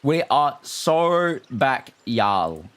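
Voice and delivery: slow, drawn-out American-style line; lightly put-on American accent, stretched out; mock American accent. Streamer telling viewers the stream is back, mock American accent. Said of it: "said y'all like I'm, I'm American".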